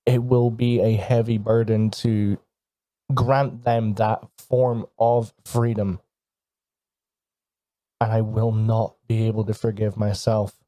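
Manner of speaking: slow, deliberate phrases with long pauses; lightly acted grave promise, measured; solemn vow. Hero warns of a terrible sacrifice to free the sisters, solemn.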